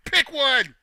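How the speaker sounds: loud frustrated challenge; exasperated shout. Real, not acted. Exasperated demand to criers.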